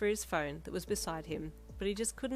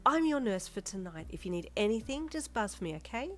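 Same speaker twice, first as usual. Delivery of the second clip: bubbly; 4 semitones higher than usual. Acted. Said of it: "in a bubbly tone".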